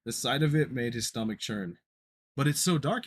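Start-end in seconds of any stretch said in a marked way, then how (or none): 2.3-3.0 scared. Acted. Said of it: "his voice still trembling".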